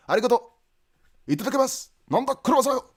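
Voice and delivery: high-pitched put-on Japanese voice; mock Japanese speaker. Shown as a demonstration. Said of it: "even a Japanese guy".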